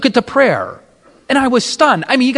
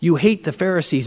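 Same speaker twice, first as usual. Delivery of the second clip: low, soft, grave pronouncement; hushed, sorrowful gentle rebuke; voice of Jesus; 6 semitones lower, 6 dB quieter than usual. Retold or imitated. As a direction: speak quietly down, with long pauses. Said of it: "And he said".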